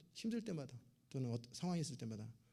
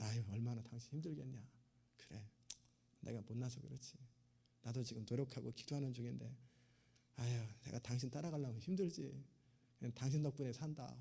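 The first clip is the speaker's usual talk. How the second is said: soothing husband; 2 semitones lower, 4 dB quieter than usual. Retold or imitated. Husband voiced soothing nagging wife.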